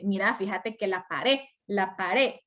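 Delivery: "paré" for pared, its final sound altered; final D demonstration. Shown as a demonstration. Teacher showing a social trait, altered ending on "paré". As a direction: say "paré" as a local form of pared. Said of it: "y la D que la hice al final".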